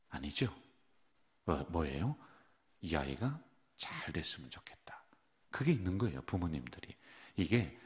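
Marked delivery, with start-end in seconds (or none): 2.8-5.0 hushed, caring parent's wish; tender whispered wish. Retold or imitated. Preacher voicing a parent's secret hope, hushed whisper. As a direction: breathe it softly like a parent hoping for a child.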